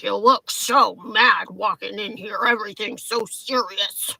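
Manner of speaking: slow mock-serious mimicry; lightly mock her with stretched words. ID checker needling woman as she walks in, slow mocking. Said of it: "Like, mocking my face".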